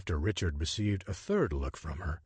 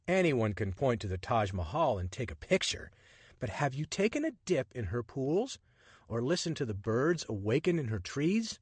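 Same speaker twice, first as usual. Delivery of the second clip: lightly voiced charming rogue, higher and playful; cheeky adventurer; 5 semitones higher than usual. Richard flirting with the woman on the Nile train, playful and cocky. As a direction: tease her with easy confidence.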